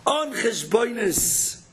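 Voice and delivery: On cheshbonis drawn out slowly, word by word; slow repeat. Shown as a demonstration. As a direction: rabbi repeating his point, On cheshbonis slowed right down. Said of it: "Be a Yid on cheshbonis".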